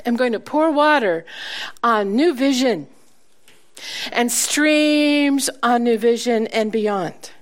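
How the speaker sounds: slow, emphatic declaiming of scripture; scripture proclamation. Acted. Preacher personalizing a verse for the congregation, slow solemn proclamation. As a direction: proclaim it as God's own promise.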